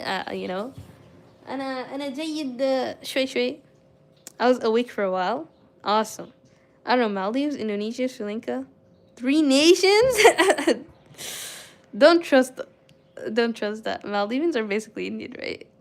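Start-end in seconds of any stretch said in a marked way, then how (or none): 1.5-3.6 quick Arabic with careful native-style pronunciation; showing off Arabic. Shown as a demonstration. Streamer proving her good pronunciation to chat, quick Arabic. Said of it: "even in Arabic". 9.2-12.6 incredulous. Real, not acted. Incredulous at chat claim.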